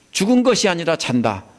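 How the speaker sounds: firm reassuring command; Jesus assuring the father; voicing Jesus. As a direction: assure the ruler, rising on fear. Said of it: "이 소리입니다".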